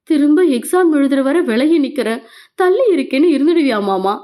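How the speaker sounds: mildly distressed question; anxious pleading. Acted. Meenal fears mama will keep away, mildly anxious pleading. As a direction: ask with a touch of worry. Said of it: "பரிதவிப்போடு கேட்டாள்".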